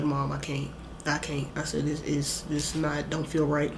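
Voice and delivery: pleading to mom with no breath left; weak, winded mock of gasping; breathless plea. Retold struggling to breathe in church.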